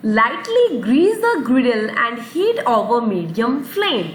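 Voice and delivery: very slow, clear example sentence; slow read-aloud. Shown as a demonstration. Teacher reads the sentence very slowly to the kids. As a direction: read each word out slowly for the class. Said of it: "teacher reads example sentence slowly".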